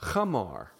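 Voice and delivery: Chamar with a throaty ch before the a; Chamar, breathed from the throat; pronunciation demo. Shown as a demonstration. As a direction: say Chamar with a rough ch at the start. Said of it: "the Galileans didn't differentiate those two syllables".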